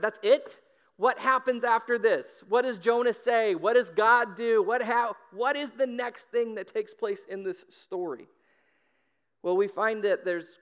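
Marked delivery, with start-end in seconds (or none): 0.0-8.3 loud, higher, insistent questions; exasperated disbelief. Acted. Reader frustrated where the story ends, exasperated disbelief. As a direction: fire off questions, indignant at being left hanging.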